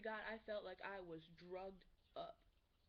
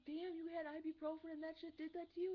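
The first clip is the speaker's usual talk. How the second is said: high-pitched imitation of an amazed classmate; mock astonishment; 8 semitones higher, 3 dB louder than usual. Classmate hearing about the ibuprofen, high mock astonishment. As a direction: pitch way up in hammed-up disbelief.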